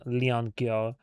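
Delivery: Leon Kyo in a heavy mock French accent, the Kyo stretched; overdone French accent. Shown as a demonstration. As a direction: Leon Kyo over-embellished the American-French way. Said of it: "American doing French accent when I say Leon".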